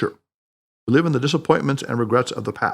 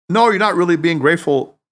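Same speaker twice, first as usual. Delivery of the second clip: scolding; 3 semitones higher, 4 dB louder than usual. Acted. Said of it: "scolded Tanaka".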